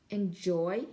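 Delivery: a mild booming query. Acted. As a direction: boom the single word out. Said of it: "he boomed".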